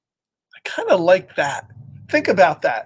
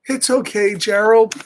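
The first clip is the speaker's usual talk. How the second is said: comforting Piggy; 3 semitones higher, 4 dB louder than usual. Acted. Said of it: "Piggy's trying to cheer him up".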